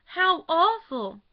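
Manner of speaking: slow, loud, high moaning cry; drawn-out groaning wail. A narrator's reading. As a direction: stretch it out into a groan of horror. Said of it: "dropped groaning into a vacant armchair".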